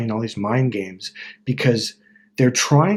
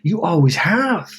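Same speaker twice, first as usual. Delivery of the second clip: wizard reassurance; 6 semitones higher than usual. Retold or imitated. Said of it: "He goes".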